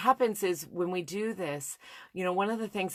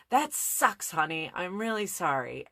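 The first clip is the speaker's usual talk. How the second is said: modelled comforting words; 3 semitones higher than usual. Retold or imitated. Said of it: "I just want you to say".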